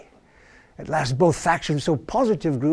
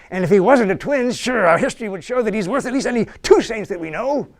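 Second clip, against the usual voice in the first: clerk; 7 semitones higher, faster than usual. Acted. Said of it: "says the clerk".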